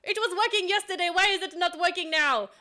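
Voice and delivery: loud, high hammed-up French accent; an outraged Frenchman with a thick French accent. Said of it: "I can totally do a French accent".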